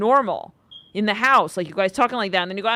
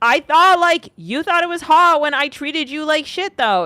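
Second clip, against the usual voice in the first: high, loud mock of a smug boyfriend; mocking the man; 8 semitones higher, 9 dB louder than usual. Tarot reader mocking the cocky guy's excuse, high and loud. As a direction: whine it back at her, puffed up and full of himself.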